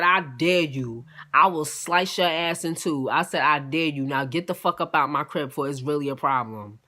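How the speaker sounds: low, measured retold threat; menacing dare. Woman warning the guest who jumped at her, menacing.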